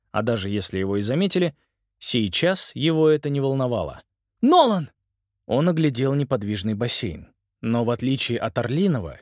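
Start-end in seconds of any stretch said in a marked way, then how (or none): 4.4-4.9 calling out. Acted. Simon calls out to brother.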